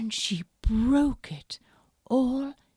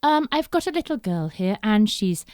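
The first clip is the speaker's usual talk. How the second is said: kind Mummy Bear; 2 semitones higher, 7 dB louder than usual. Acted. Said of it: "said Mummy Bear".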